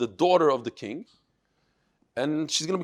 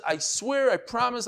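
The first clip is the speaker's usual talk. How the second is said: earnest vow; 7 semitones higher than usual. Acted. Shimon vows to the father.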